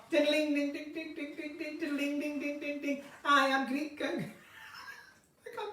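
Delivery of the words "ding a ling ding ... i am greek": mock Greek with soft ding-a-ling patter; mock Greek accent. Shown as a demonstration. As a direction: fake Greek, imitating plucked music. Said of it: "Greek would be more".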